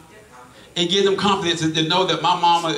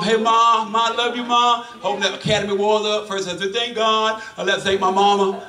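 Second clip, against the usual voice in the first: mock shout out; 4 semitones higher than usual. Athletes' shout out imitated.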